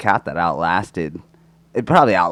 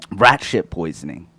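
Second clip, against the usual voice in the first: said loud; 4 dB louder than usual. Real, not acted. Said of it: "I said that really loud into the microphone".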